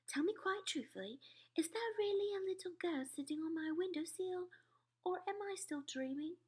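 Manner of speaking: tight, shaky-breath whisper; strangled whisper. A narrator's reading. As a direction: whisper as if choked with shock. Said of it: "strangled sort of whisper".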